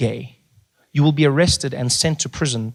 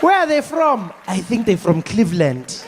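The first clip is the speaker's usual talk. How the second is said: puzzled viewers; 4 semitones higher than usual. Retold or imitated. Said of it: "we watch those movies and we're like".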